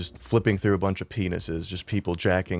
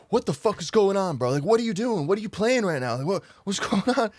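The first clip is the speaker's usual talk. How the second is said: much higher, frantic confusion; panicked; 10 semitones higher than usual. Retold or imitated. Woken at night, asking his friend what's playing, panicked. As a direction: retell your own freak-out, voice shooting up.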